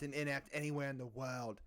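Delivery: impression slipping into Australian; accidental, light Australian accent. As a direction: let a bad impression drift Australian at the end. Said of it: "I went Australian at the end".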